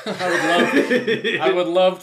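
slow, loud laughing words. Real, not acted. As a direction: laugh your way through it. Laughing after the cricket joke.

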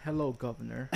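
mock British "governor" greeting; British accent. Shown as a demonstration. Prompting a stuck friend, mock British accent. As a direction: prompt them with a stock British hello. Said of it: "British edition".

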